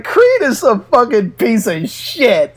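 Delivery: a friend cracking up as he swears, lightly voiced; imitating laughing friend. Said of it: "He's like".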